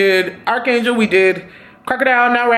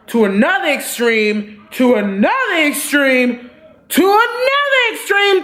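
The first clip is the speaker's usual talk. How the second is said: each repeat climbs higher and higher, ending far up; building exasperation; 4 semitones higher than usual. Real, not acted. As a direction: ramp up the outrage with every repeat. Building repetition of extremes.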